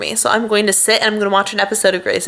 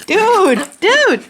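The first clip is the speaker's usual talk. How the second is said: high, loud "dude!"; calling out; 12 semitones higher, 3 dB louder than usual. Real, not acted. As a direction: call out sharply to the dog. Calling out to dog.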